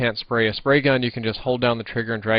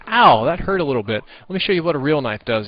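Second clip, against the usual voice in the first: game enemy voice; 4 semitones higher, 5 dB louder than usual. Retold or imitated. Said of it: "he's like".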